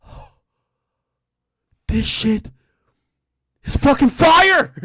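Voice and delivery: squealing high, slow hype; hyped fan. Retold or imitated. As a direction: gush like a starstruck fan. Hyped fans praising a rapper.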